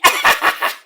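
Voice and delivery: staccato mock laugh; badly faked imitation of her laugh; put-on cackling laugh; imitated woman's laugh. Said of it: "I can't do her laugh".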